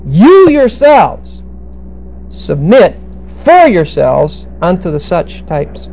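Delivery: slow demonstration with "You" strongly stressed; emphatic YOU. Shown as a demonstration. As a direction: lean long and hard on "You", pausing after "yourselves". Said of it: "with the emphasis in the proper place".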